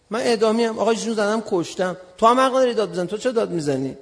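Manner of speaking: retold heated objection; indignant protest. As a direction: argue back as if wronged. Retold protest to senior officer.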